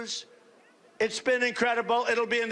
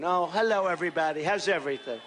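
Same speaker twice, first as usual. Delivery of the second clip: mock nice tone; 5 semitones lower, faster than usual. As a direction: fake sweet greeting to show a nice tone. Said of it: "I'm supposed to have a nice tone".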